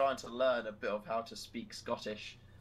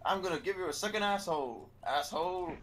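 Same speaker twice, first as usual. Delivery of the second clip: Fragger voice line; 5 semitones higher than usual. Retold or imitated. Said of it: "Fragger did the".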